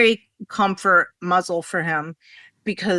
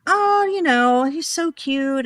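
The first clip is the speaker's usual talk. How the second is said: gushing; 7 semitones higher than usual. Retold or imitated. Gushing over puppy photo.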